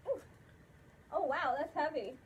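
muffled inside mascot head; through a costume head. Real, not acted. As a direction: voice behind full mask. Seen 0: Full costume head covers speaker's face, hands adjusting it, throughout.

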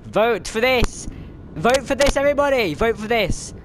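high, loud rallying call to everyone; excited shouting. Real, not acted. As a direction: hype up the whole lobby. Urging other players to vote.

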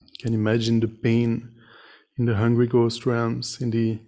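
measured meditation teaching with long pauses; guided meditation. Real, not acted. Meditation teacher leading sitters to reflect on suffering and compassion, guided meditation. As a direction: guide them gently, phrase by phrase, leaving silences.

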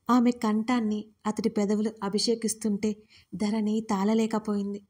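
ordinary delivery

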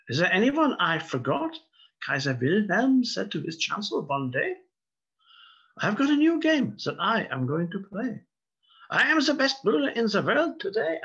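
mock German accent reading a comic poem; fake German accent. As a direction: recite it like a pompous Kaiser in mock German. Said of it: "it has to be said with a fake German accent".

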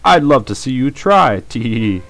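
slow sneering villain taunt; hammed-up smug giggle; bad acting sneer. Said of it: "my terrible voice acting there".

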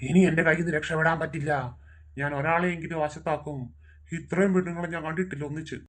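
low, menacing demon voice with an evil laugh. Acted. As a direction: loom over them like a forest spirit. Chudalamadan demon speaks.

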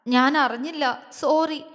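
understated tearful apology; choked with tears. A narrator's reading. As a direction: apologise as if holding back sobs. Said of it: "അവൾ വിങ്ങിക്കൊണ്ട് പറഞ്ഞു". (വിങ്ങിക്കൊണ്ട്)

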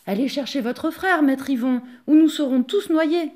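loud, rising panicked shout. Acted. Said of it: "les hommes crièrent".

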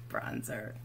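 soft pleased murmur; quiet aside. Real, not acted. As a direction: drop it to a low satisfied murmur. Quiet repeat after excitement.

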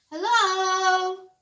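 high, loud, sing-song greeting; sing-song hello. Acted. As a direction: call out cheerfully from hiding. A new voice under the drawers.

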